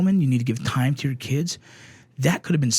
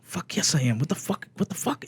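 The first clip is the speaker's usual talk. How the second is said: hushed, indignant disbelief, rising high; mad inner voice; 4 semitones higher, 4 dB quieter than usual. Retold or imitated. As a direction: seethe quietly to yourself, replaying it. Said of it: "in my head, I'm so mad".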